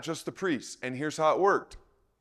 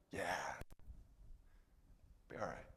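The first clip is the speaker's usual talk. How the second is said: much softer, lower brush-off, barely bothering; dismissive mumble; 10 semitones lower, 22 dB quieter than usual. Acted. Husband brushing off his wife about the goat, mumbled. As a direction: mumble it away like a husband dodging the question.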